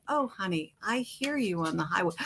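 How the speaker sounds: soft knowing. Retold or imitated. Gently catching husband's lie.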